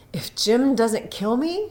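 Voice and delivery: hushed, unvoiced worry; whispered to herself. Della whispering to herself at the looking glass, hushed. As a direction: whisper it to yourself in the mirror. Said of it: "she said to herself".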